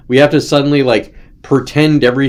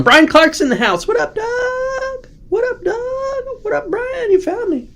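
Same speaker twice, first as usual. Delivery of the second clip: playful greeting; slower than usual. Real, not acted. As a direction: squeak a hello to the viewers like a cartoon. Greeting viewers arriving in chat.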